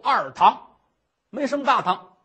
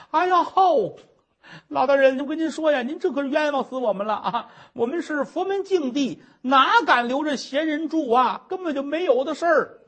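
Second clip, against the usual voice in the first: theatrical protest; 3 semitones higher than usual. Acted. Nun protests innocence.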